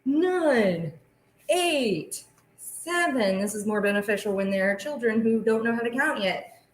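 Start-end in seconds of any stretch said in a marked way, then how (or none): 0.0-3.4 counting down. Shown as a demonstration. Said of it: "count down with me".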